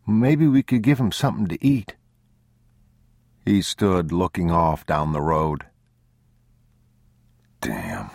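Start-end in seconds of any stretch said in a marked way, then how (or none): 0.1-2.0 put-on high child's voice, hopeful request; pleading boy. A narrator's reading. Boy asking father to feed the old man, high child voice. 7.6-8.1 low, very soft mutter; whispered curse. A narrator's reading. Man cursing to himself by the road, low soft whisper. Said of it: "he whispered".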